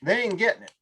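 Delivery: quick, pushy New York patter; fast New Yorker. Shown as a demonstration. Showing how a fast New York talker loses Southern listeners. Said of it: "like I'm from New York".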